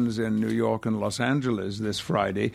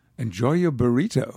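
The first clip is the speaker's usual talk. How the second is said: put-on American accent. Asked to end the podcast with the sign-off in an American accent. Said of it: "say that in your favorite American accent".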